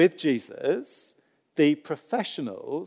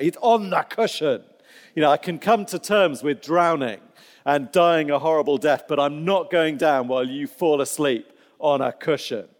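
hammed-up outrage, a bit louder; mock indignation; 4 dB louder than usual. Preacher voicing a disciple outraged at Jesus asleep, mock indignant. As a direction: sputter at the sleeping man's cushion. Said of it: "hear the indignation behind that".

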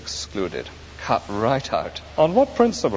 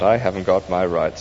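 "I haven't got my rights" said lower and calmly, the stress on "I"; lower, gentle "I haven't got my rights"; calm spirit; 4 semitones lower than usual. Acted. The spirit gently answers the grumbling ghost.

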